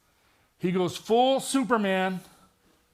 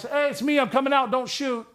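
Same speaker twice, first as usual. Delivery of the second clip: higher and louder, mock-confident call; big boy voice; 6 semitones higher, 4 dB louder than usual. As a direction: puff up and call out to the partners. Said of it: "I'm using my big boy voice".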